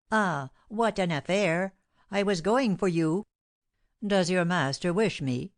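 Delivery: lightly voiced fussy servant, eager to tell; a hint of a gossiping servant; excited servant.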